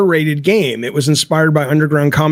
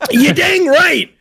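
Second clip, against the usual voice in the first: drawled folksy punchline; 10 semitones higher, slower than usual. Shown as a demonstration. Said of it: "See what I did?".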